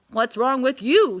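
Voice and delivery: gruff barking dog voice; woofing dog. A narrator's reading. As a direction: woof it like a curious dog. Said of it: "he woofed".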